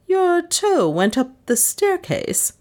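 slow, high-pitched disbelief; incredulous echo. A narrator's reading. Mistress questioning her hysterical maid, incredulous. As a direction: repeat it slowly, high and incredulous.

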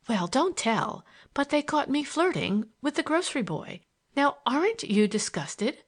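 a touch of coy confession; coy confiding girl. Acted.

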